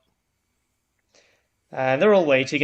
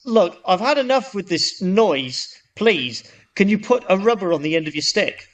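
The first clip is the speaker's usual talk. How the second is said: fed up; 3 semitones higher than usual. Acted. Man has had enough.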